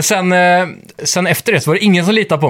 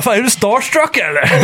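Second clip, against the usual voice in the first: higher-pitched retold fan banter; mock excited needling; imitating excited fans; 5 semitones higher than usual. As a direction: act out a teasing fan, pitched up. Retold fans teasing each other.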